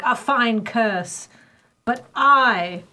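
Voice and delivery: slow, drawn-out witch voice; witchy voice. Acted. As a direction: read the hex like a scheming witch. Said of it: "you're sort of doing a witchy voice".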